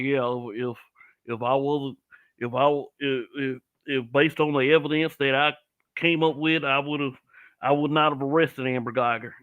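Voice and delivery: lightly imitated thick country accent; a hint of a country lawman's accent, haltingly delivered. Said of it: "like, thick country accents".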